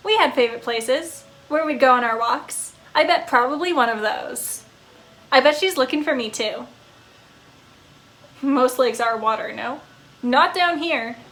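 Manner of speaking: a pup gushing about his owner; fond talking dog. Acted. Dog character.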